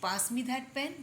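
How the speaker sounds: slow, gentle polite asking; polite request. Shown as a demonstration. Someone politely asks a neighbour for the pen. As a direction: ask for the pen kindly and slowly. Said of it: "तो आप ये भी क्या".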